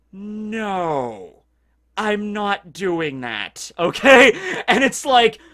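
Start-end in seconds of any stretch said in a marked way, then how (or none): 0.1-3.7 put-on deadpan serious voice. Retelling a scene where Robin refuses the others: imitating Robin's deadpan refusal. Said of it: "She's just deadpan, serious".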